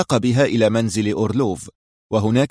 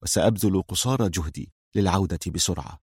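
soft, low, affectionate promise; quietly tender; 3 semitones lower, 5 dB quieter than usual. A narrator's reading. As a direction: reassure a loved one gently. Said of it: "ابتسم قائلا في حنان".

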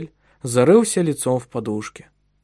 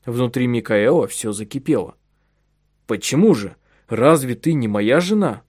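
plain reading voice

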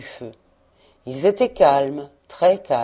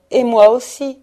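higher, louder chiming-in cry; eager echo; 5 semitones higher, 7 dB louder than usual. A narrator's reading. All the children echoing one another, eagerly crying out. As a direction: everyone piping up, rising at the end. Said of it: "Tous répétèrent".

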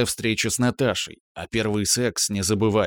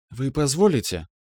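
put-on a light, courteous young woman asking; polite woman; 4 semitones higher than usual. Young woman politely asks to join the table. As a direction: ask politely for the seat. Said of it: "Вежливый женский голос".

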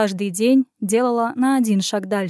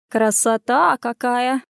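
delighted; slower than usual. Acted. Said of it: "обрадовалась и кошка".

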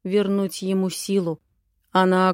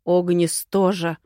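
growl; 4 dB louder than usual. Acted. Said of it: "прорычал Валгус".

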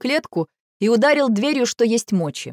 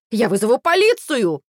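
higher, louder indignant squeal; shrill squeal; 3 semitones higher, 3 dB louder than usual. A narrator's reading. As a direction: squeal it out in panic. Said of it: "взвизгнул Павлик".

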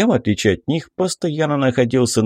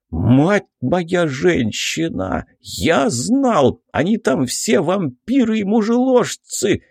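higher, awestruck gasping exclaim; breathless awe; 7 semitones higher, slower than usual. A narrator's reading. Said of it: "с придыханием сообщил водитель".

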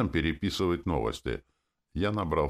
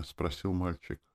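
usual speaking voice

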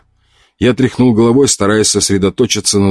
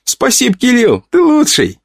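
put-on little girl voice. A narrator's reading. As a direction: gush like a happy little girl. Child thanks uncle for gift.

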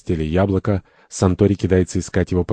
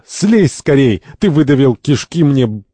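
loud, raised-pitch urgent protest; struggling free; 7 semitones higher, 4 dB louder than usual. Acted. Santori sat on by the second, struggling protest. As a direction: demand release mid-struggle. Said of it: "Сантори вырывается".

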